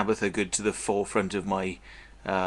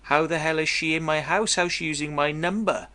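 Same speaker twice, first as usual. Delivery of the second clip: retold shock; 6 semitones higher than usual. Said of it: "and I thought".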